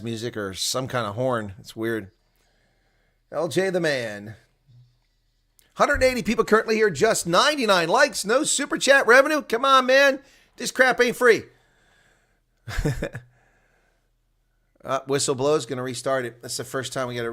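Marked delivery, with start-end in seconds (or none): 5.7-11.4 high, loud mock complaint about the money; mock rant. Streamer fake-ranting to viewers, high and loud. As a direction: whine loudly about unpaid work, half joking.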